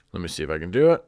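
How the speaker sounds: usual speaking voice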